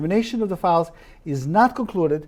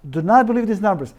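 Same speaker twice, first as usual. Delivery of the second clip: "not" punched louder with a falling tune; stress on not; 4 semitones higher, 4 dB louder than usual. Retold or imitated. Quoting the professor's warning to viewers, stressing "not". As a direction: hit "not" hard as a warning. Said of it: "listen to his statement".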